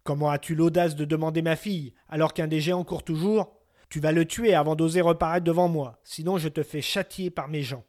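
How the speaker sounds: a king scolding an upstart suitor; angry king. Acted. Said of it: "le reçut fort mal et lui dit".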